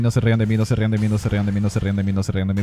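one-breath rattle, steadily dropping in pitch and fading; mock pleading. Streamer begging not to be laughed at, mock pleading chant. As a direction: repeat it as a running plea until it sags.

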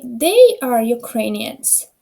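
"we are Ukrainians", every word drawn out slowly; slow model sentence. Shown as a demonstration. Teacher reads example to class, very slow and clear. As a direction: spell it out slowly so students catch the final s. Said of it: "без цієї «с» ми не можемо".

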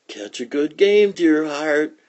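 high, loud, slow sing-song; teasing sweetness. Acted. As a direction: drag it out to needle him. Lucy teases Schroeder, long awaited line.

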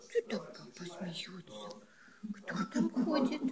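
hushed whisper to a pet. Real, not acted. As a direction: whisper it secretively. (шёпотом)

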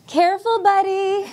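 put-on a lazy high-pitched "careful, buddy" tossed at the kid; breezy mock-parent call from the bench; singsong warning. Mock warning to child at park.

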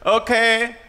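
lightly put-on French accent of the chef; a hint of thick French accent, saying pineapple teat; Manu's French accent. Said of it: "I can do Manu".

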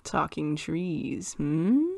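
slow, low musing with a questioning hum; a hint of the little Jedi master in a slow ponder; Yoda. Real, not acted. Cohost echoing the talk of trees, a hint of Yoda. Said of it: "sound like Yoda just then".

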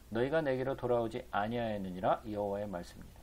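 even, measured Bible reading; scripture reading. A narrator's reading. Preacher reading the prophet's words to the congregation, formal recitation. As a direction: read the verse out formally.

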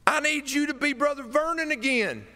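high, loud pleading squeak; squeaky Wooster voice. Retold or imitated. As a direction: still squeaking, begging him back. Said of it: "In my best Wooster voice".

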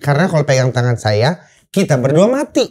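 measured, deliberate warning; clear instruction. Retold or imitated. Survivor warning the man clinging to him, measured clear warning. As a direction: explain it distinctly, as an instruction. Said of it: "instruksi jelas tuh".

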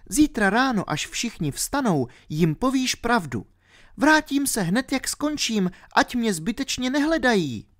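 put-on a ten-year-old girl explaining herself. A narrator's reading. Alenka explaining to R why she fell asleep, girlish.

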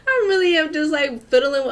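high, loud wail of a laugh; half-crying laugh. Real, not acted. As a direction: whine it through laughter.

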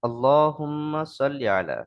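"সাল্লি" with a heavy, emphatic sad; correct sad sound. Shown as a demonstration. Teacher showing the letter sad, "সাল্লি" said with a heavy S. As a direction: say "সাল্লি" with a full, thick S as in Arabic sad. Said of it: "এখানে সদ রয়েছে".

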